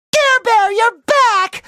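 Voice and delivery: high, delighted cry; overjoyed. Acted. Greeting his returned pet, overjoyed. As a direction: squeal with joy at a reunion. Pet has come back.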